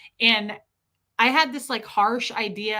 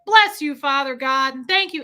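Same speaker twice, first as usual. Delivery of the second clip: imitated earnest prayer, raised voice; Fred; 3 semitones higher, 6 dB louder than usual. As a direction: give thanks out loud like a hard-of-hearing man. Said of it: "he'd be talking all loud".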